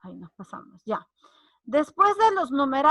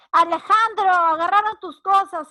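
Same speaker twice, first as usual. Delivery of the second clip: loud, higher, urgent call; mamá avisando a gritos; 6 semitones higher, 8 dB louder than usual. Acted. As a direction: call out the news like mom. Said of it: "mamá viene y te dice". (aviso de mamá a gritos)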